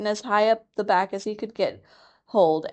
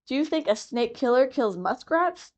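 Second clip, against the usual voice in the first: scornful; 6 semitones higher than usual. Acted. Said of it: "said Rikki Tikki scornfully".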